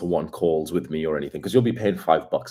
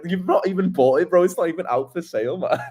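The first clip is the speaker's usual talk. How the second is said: ordinary talk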